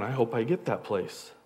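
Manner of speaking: hushed daydream of the best seat; quietly wishing. Retold or imitated. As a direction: murmur it to yourself, hoping nobody hears. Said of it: "kinda quietly going".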